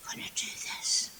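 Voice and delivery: whispered to herself, unvoiced and soft; whispered resolve. Girl whispering a promise to herself, hushed. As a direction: hush it like a private promise. Girl's silent resolve before trying.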